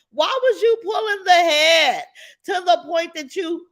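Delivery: rising indignant shout on "Why was you pulling"; outraged. Real, not acted. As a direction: demand an answer in disbelief. Outrage at doctor's actions.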